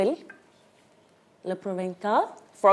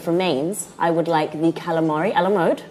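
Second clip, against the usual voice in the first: put-on a touch of a posh London accent, ordering with care; 3 semitones lower than usual. A diner orders fancy food in a posh London accent. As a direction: order the French dishes like a polished Londoner. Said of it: "I love this your accent".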